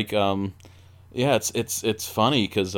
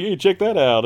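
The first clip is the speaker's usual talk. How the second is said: higher, louder nudge to look; friend's childish dad; 7 semitones higher, 5 dB louder than usual. Retold or imitated. Friend's dad watching Total Recall with kids, childish excitement. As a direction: imitate an overgrown-kid dad, pitched up. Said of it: "And he was like".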